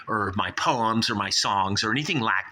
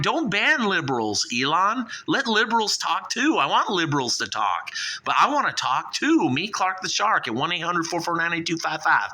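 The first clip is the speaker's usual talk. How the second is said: much higher pleading voice; 6 semitones higher than usual. Acted. Shark begging Elon not to ban liberals, high pleading. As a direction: beg Elon, pitch climbing high.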